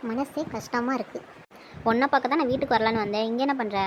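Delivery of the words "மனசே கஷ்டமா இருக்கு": soft, slow, heavy-hearted; tearful sadness. Acted. Woman confides her hurt, soft sad voice. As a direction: say it softly and slowly, close to tears. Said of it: "ஏன்டி மறுபடியும் அழுவ ஆரம்பிச்சிட்ட".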